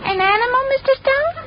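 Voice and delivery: high, innocent squeak of surprise; mock surprise. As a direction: play dumb, voice shooting way up. Feigning innocence about the dog.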